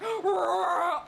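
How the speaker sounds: mock dinosaur roar trailing away; distracted T-Red roar. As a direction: roar half-heartedly, about to get distracted. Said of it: "the T-Red, it's more like".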